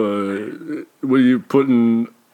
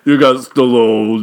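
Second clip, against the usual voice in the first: slow shouted gloat; triumphant shout; 5 dB louder, slower than usual. Acted. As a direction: yell it in triumph. Loud celebratory shout.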